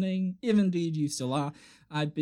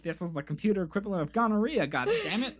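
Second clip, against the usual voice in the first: high-pitched virus character; a pretend computer virus griping; 8 semitones higher than usual. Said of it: "It's like".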